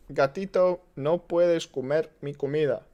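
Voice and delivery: put-on Spanish said with a heavy American gringo accent. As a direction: scold the cat in deliberately bad gringo Spanish. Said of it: "I speak like a gringo".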